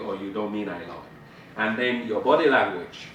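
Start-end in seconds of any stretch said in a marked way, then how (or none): 0.7-1.6 plain. Shown as a demonstration. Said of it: "whether you really mean".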